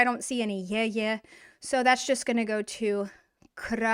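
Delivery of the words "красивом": syllable by syllable. Shown as a demonstration. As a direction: break красивом into kra, si, vom. Teacher builds the new word slowly.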